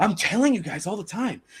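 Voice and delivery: breathless, winded talk. Describing a man who is always out of breath, the speaker mimics him, imitating breathless talking. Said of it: "he's always out of breath".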